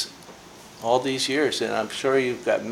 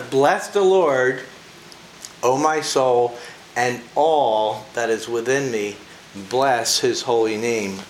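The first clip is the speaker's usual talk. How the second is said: slow, solemn recitation of the psalm; scripture reading; slower than usual. Real, not acted. Preacher reads the first verse of Psalm 103 aloud, slow and solemn. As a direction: read it slowly, giving weight to each line. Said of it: "So the first verse".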